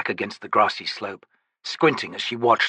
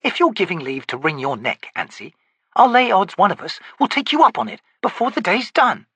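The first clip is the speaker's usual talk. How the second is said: dry corporal; 10 semitones higher than usual. Acted. Pika retorts.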